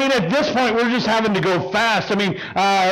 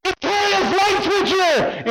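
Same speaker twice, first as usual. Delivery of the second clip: retold yell; 9 semitones higher, slower than usual. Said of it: "he hears the guy yell at him".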